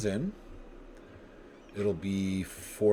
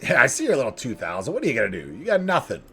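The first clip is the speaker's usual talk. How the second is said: attempted Irish accent, higher on the last taunts; Conor McGregor accent; 3 semitones higher, 3 dB louder than usual. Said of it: "supposed to be a Conor McGregor accent".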